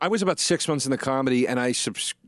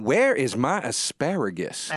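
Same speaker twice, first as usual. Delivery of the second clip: her exact way; slower than usual. Retold or imitated. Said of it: "she said it like this".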